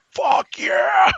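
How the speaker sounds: high, loud whoop of joy; gleeful shout. Retold or imitated. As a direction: cheer it out like you won. Cheering at not having to DM.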